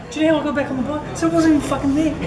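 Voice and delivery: can barely get the words out for laughing; laughing disbelief. Real, not acted. Cracking up over the absurd story.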